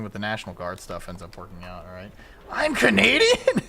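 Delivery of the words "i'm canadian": high, loud, stretched-out disbelief; hammed-up astonished question; mock shock. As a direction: cry out as if stunned by the news. Mock shock at being Canadian.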